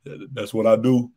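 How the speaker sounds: lightly put-on big-man interview voice; a hint of a booming star center; mock Shaq voice. Mocking a player's interview answer, a light Shaq-style voice. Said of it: "trying to sound like Shaq or something".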